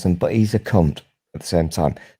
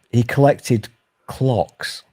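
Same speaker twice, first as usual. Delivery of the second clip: careful, slow delivery; 2 semitones higher, much slower than usual. Real, not acted. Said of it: "I said that carefully".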